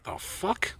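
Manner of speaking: breathy disbelieving hush; whispered aside. Retold or imitated. Retelling a shocked reaction to the cashier, whispered. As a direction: mutter it under your breath, stunned. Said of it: "And I was like".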